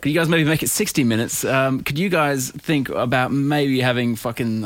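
lightly mock a manager asking favours; tentative mock-manager asking; imitating management. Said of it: "management have been talking about".

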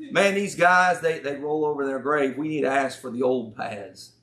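lightly mocking southern preacher lament; southern accent. Old paths preacher lamenting the trendy churches, southern accent. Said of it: "I talk with a southern accent".

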